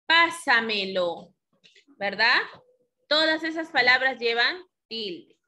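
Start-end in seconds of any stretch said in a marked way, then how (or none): 0.1-1.3 "pásamelo" slow, weight on "pá"; sobresdrújula stress. Shown as a demonstration. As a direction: draw out "pásamelo", stressing its first syllable. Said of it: "la sílaba anterior a la antepenúltima". («pásamelo» lento, marcando la primera sílaba)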